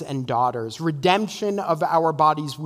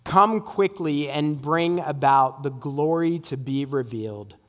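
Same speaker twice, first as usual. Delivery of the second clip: public prayer. Real, not acted. Leads closing prayer.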